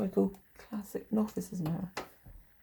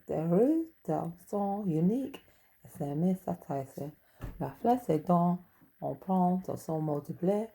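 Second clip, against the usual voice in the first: mock French reading. Shown as a demonstration. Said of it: "I'll read some French to you".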